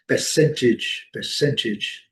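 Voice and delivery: percentage in British English, R silent; British percentage, stressed on the second syllable. Shown as a demonstration. Teacher restarts the British example, British pronunciation. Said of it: "No inglês britânico".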